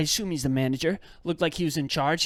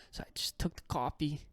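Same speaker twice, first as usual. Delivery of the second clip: whisper; 3 semitones lower, 11 dB quieter than usual. Real, not acted. Resigned storytelling.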